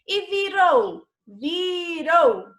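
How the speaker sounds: vi-ROU, stretched for the class; stressed syllable demo. Shown as a demonstration. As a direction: say "virou" deliberately, leaning on the last syllable. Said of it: "saiu com maior intensidade".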